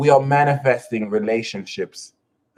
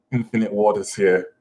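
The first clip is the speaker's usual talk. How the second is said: imitating his half brother; 3 semitones lower than usual. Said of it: "he used to start saying it in his videos".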